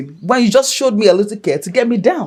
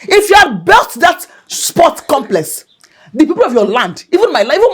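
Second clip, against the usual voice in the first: angry outburst; 4 semitones higher than usual. Acted. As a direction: burst out at him in anger. Wife accusing husband in quarrel.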